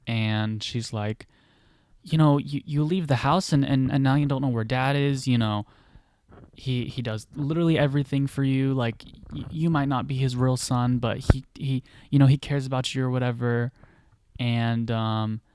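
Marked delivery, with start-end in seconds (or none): 2.0-13.7 getting angry. Retold or imitated. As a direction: push it with rising anger. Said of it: "actually angry at him".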